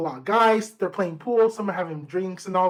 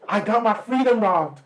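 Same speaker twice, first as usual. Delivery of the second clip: laughing. Shown as a demonstration. Telling a friend about the dream, laughing through it. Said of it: "repeated with a laugh".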